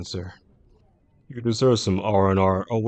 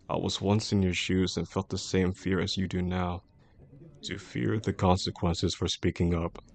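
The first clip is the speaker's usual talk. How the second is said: gentle reassurance. Acted. Boss to bullied employee, it's okay to feel scared, gently reassuring.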